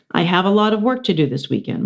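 put-on fast, busy girl voice; Miranda voice. Miranda busy with work, speaking fast. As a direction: rattle it off quickly. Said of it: "Miranda said".

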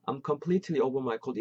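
"completely" with its T sounded; easy learner's version of "completely"; fully sounded completely. Shown as a demonstration. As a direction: keep every syllable of "completely". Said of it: "이렇게 해도 된다고 그랬습니다".

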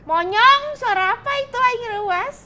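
high, loud panicked yell; frightened shout. Real, not acted. Startled by a noise. (teriak panik)

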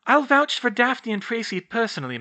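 insisting. Acted. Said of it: "she insisted".

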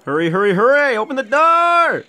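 rising into a high, loud frantic yell; frantic urgency. Real, not acted. Gamer chased while a door opens, frantic panic.

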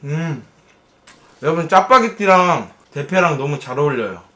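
talking while chewing; muffled mid-bite speech; mouth full of noodles. Real, not acted. Seen 0: Eats noodles before; lips pursed chewing, cheeks full while talking.

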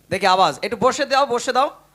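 loud rallying call to the crowd. Real, not acted. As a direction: fire up the crowd, loud and commanding. Host urging crowd to shout louder. (জোরে ডাক)

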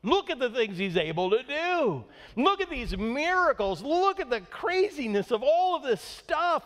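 wide-eyed crowd talk, pitch climbing; amazed onlookers. Acted. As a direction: gush in amazement at each wonder. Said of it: "they're thinking to themselves".

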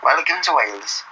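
lilting, badly faked Welsh; attempted Welsh accent. Welcoming visitors to Wales, unconvincing Welsh accent. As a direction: try Welsh and not quite get it. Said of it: "the Welsh accent".

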